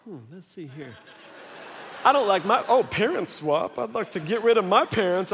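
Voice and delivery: second grader voiced. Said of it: "my little second grader was like".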